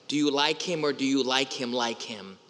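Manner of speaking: mock teen girl, leaning on the repeated like him; teenage girls asking about a crush, stress on like him. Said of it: "They do this when they talk".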